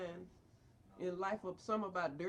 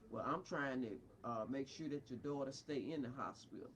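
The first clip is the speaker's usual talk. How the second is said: mocking quote; 10 semitones lower, 5 dB quieter than usual. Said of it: "talking about".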